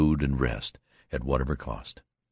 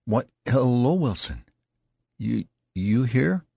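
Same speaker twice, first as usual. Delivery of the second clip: a lightly voiced wounded youth calling out, higher; weak called greeting; 8 semitones higher, 3 dB louder than usual. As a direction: call out faintly, tottering. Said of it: "he called out".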